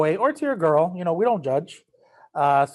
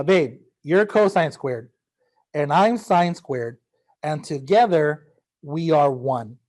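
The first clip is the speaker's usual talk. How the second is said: mock love poem; 3 dB louder, slower than usual. Shown as a demonstration. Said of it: "called the Valentine's formula".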